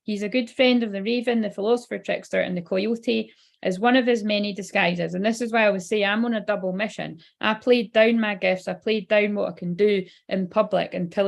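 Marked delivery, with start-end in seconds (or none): 0.0-5.1 measured card-reading delivery; lilting, even read-aloud phrasing. Real, not acted. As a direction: read the guidance out to an audience. Reads card text aloud.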